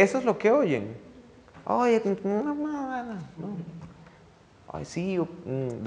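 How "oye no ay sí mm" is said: mimicking teen slang. Mimics how kids talk.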